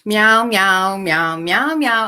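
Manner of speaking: loud, chanted cat meows; playful meowing. Pretend. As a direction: meow loudly like a cat to greet the viewers. Imitates cat to open stream.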